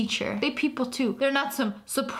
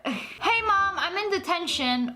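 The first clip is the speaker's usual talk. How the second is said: put-on teen kid voice; 6 semitones higher than usual. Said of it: "kid calling mom".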